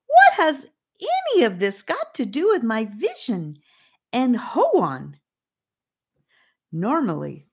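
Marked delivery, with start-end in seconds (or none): 0.1-5.2 high, loud, indignant outburst; soaring raised voice. A narrator's reading. Charlie demands answers about his vision, voice soaring. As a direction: send the voice soaring in protest. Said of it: "raising his voice to a soaring height".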